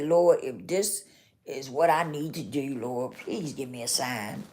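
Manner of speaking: hushed, soft plea to God; a retold woman praying quietly for a sign; quiet prayer. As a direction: murmur the prayer softly, falling away.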